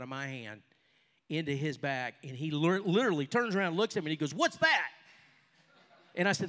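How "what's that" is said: much higher, louder cry of surprise; astonished yelp, retold; acted startled question. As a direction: blurt it out, pitched way up. Acts the man's startled reaction.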